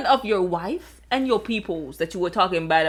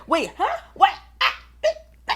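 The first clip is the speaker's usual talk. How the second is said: shocked stammer; 11 semitones higher, faster than usual. Retold or imitated. Haman caught in shock.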